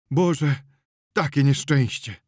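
high, loud wailing lament; lamenting old woman. Acted. Old Agata lamenting the accident, high loud wail. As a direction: cry out over the misfortune. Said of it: "powtarzała stara Agata".

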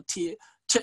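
ティ, then チェ, as isolated short sounds; demonstrated syllable onsets. Shown as a demonstration. Lecturer contrasting the front parts of syllables, pronunciation demo. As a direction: sound out ティ and チェ separately. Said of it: "って音と".

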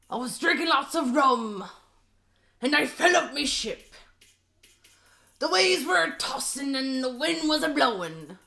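pirate voice. Acted. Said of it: "manly pirate voice".

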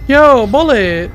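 long drawn-out loud call; stretched yell for a lost dog. Real, not acted. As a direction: shout the dog's name across the map.

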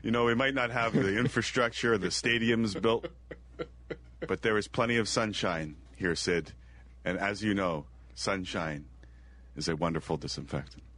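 lightly voiced official reply, ending low and soft; Kushal. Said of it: "What Kushal also wanted to say".

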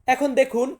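ordinary talk

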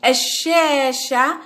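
الشاشة slowly, L silent, sh held double; shadda demonstration. Shown as a demonstration. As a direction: draw out the first ā of الشاشة after a doubled sh. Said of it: "إذن أعيد".

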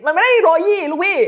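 high-pitched, incredulous outburst; exasperated protest. Acted. Reviewer debunks the hyped frame rate to viewers, exasperated protest. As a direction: burst out high in comic disbelief.

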